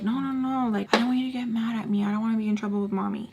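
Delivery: quick, rushed backpedal; mock a boyfriend hastily appeasing; rapid pleading, imitated; hurried placating. He placates her, retold.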